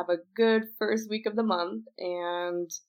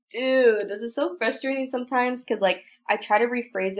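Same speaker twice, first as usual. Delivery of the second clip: frustrated; 4 semitones higher, 5 dB louder than usual. Real, not acted. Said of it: "I'm very frustrated again".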